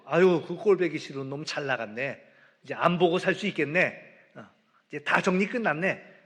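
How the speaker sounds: sneering good-riddance, loud and pleased; scornful relief. Retold or imitated. Elder son gloating that his brother left, loud scornful relief. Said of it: "형의 마음인 거야".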